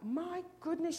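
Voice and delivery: storybook gasp of shock in words; startled cry. A narrator's reading. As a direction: cry out in alarm as Missus Hope. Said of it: "she cried".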